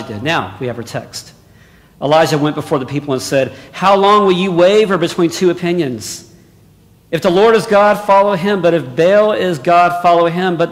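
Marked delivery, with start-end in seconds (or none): 3.7-10.6 preaching challenge. Acted. Elijah's challenge to the people.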